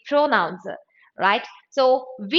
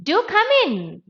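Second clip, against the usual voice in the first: high, less forceful invitation; softened command; 7 semitones higher than usual. Shown as a demonstration. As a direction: ease the order into an invitation. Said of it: "Soften the tone".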